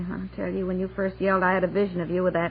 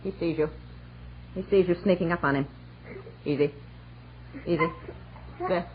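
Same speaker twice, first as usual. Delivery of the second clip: hushed coaching; 3 semitones lower, 6 dB quieter, faster than usual. Acted. Wife coaching husband's sneak.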